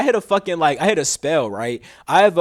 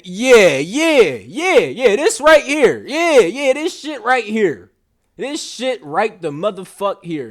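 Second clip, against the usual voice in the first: higher and louder, eureka over the right word; triumphant find; 5 semitones higher, 3 dB louder, slower than usual. Real, not acted. Checking the word's meaning on camera, triumphant. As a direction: hype yourself up on finding it. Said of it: "Let me see".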